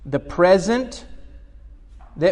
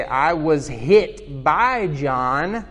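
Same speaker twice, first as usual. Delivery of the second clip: slow example; slower than usual. Shown as a demonstration. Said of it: "if I say".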